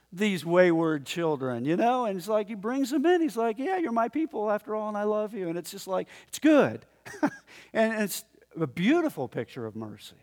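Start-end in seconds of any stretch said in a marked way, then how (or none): 3.6-5.5 higher-pitched, affectionate quote of God; reassuring. Retold or imitated. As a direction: take them back fondly as God. Voices God welcoming wayward children back.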